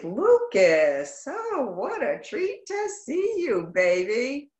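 high, slow, gushing hello to a student; thrilled to see a returning student; delighted greeting. Real, not acted. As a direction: sing out his name with pitch leaping up. Teacher greets arriving student.

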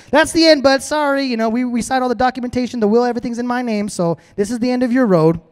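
high, brisk, offhand wife; a lightly voiced wife brushing him off; mock wife voice. Wife tells Haman he is finished, high and breezy.

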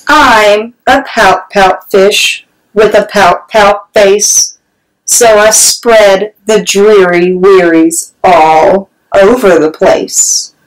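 slow, droopy sing-song of a sad fish; glum fish refrain.

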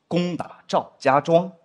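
赵家庄 drawn out slowly, each syllable stressed; slow mock-dramatic stress on 赵家庄; stress on place name. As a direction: spell out 赵家庄 heavily, as if everyone must hear. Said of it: "赵家庄三个字还要重读出来".

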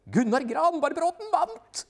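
high, loud, slow announcement of the win; wife shouting the winner's name at the TV; excited shout. Acted. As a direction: savor every syllable of the winner's name.

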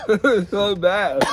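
laughing through the words; half laughing, half complaining. Real, not acted. Friend in pain from the spicy snack, laughing through it.

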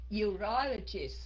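urologist, slowly, with the weight on the second syllable, u-RO; slow teaching demo of urologist with the stress on RO. Shown as a demonstration. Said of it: "nhấn cái âm thứ hai".

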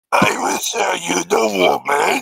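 lightly muffled Watto voice. Acted. Watto calling from under the floorboards, muffled voice. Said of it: "you just hear really muffled".

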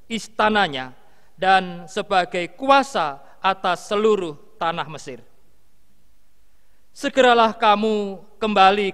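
solemn, measured reading with deliberate pauses; scripture reading. A narrator's reading. Minister reading Genesis to the congregation, solemn scripture reading. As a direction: read out scripture phrase by phrase, lifting each opening and letting endings fall.

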